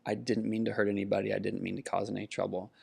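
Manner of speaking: put-on soft, hurried, quietly upset boy's plea; a mild hint of a distraught twelve-year-old, pleading; lightly voiced sad boy apologizing; boy beside himself with sadness. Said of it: "beside himself with sadness".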